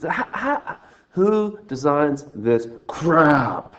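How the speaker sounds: exasperated laugh. Real, not acted. Annoyed at the software.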